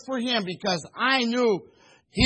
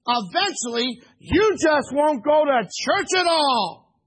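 stern warning; 3 semitones higher than usual. Retold or imitated. Pastor sternly warning the young man about his future, raised voice. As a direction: warn him point by point like a prophet. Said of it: "I said it sternly".

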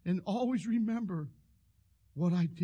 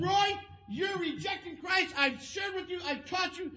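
retold scolding; 10 semitones higher than usual. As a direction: rebuke him hard, voice raised. Preacher scolds Roy in retold argument.

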